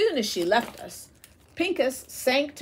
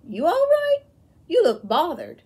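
much higher, concerned question; worried concern; 9 semitones higher, 7 dB louder than usual. A narrator's reading. Soldier seeing his friend go pale, concerned. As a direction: check on a friend gone pale.

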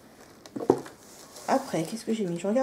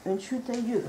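sudden high startled cry; surprised; 6 semitones higher than usual. Real, not acted. Vlogger startled when something falls, surprised. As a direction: yelp at something falling.

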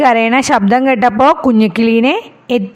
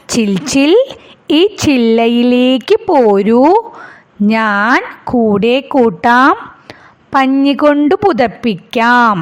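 squirrel voice; slower than usual. Acted. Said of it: "എന്താ അണ്ണാൻകുഞ്ഞ് പറഞ്ഞത്?".

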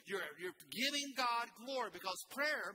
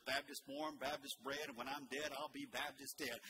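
folksy rhyme; 5 semitones lower, 3 dB quieter than usual. Acted. Folksy rhyme about being Baptist.

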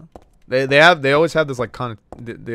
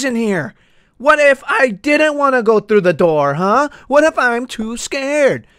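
Karen voice. Pretend. Mocking entitled customer.

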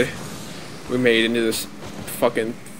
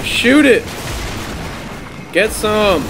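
shouting gamer; 4 semitones higher, slower than usual. Real, not acted. Urging the attack.

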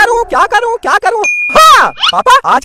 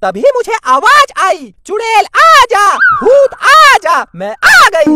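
witch voice; 3 semitones higher, slower than usual. Acted. Mother plays a witch who answered the call, slow and spooky. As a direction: speak slowly like a spooky witch. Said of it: "अब acting मत कर".

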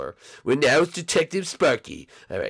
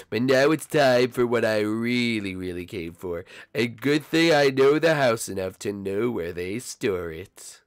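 gloating; 3 semitones lower, slower than usual. Acted. Thief gloats over finding money.

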